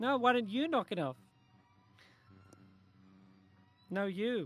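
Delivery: put-on childish, high, sing-song, squabbling voice. A Kenku replies to a companion, in a childish voice. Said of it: "the Kenku reply in a childish voice".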